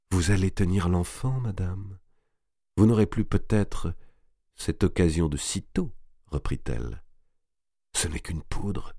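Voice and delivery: soft, suave, tempting voice; femme fatale. Acted. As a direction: purr it like offering a sweet. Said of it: "Elle parlait d'une voix suave, tentatrice".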